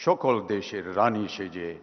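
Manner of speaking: measured recital of patriotic Bengali verse; declaimed verse, letting each couplet fall away at the end; poem recitation. Acted. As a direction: recite it line by line, pausing between phrases. Recites popular song as verse.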